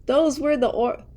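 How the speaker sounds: a hammed-up cry of dismay; shrieked. A narrator's reading. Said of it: "shrieked Aunt Figgy".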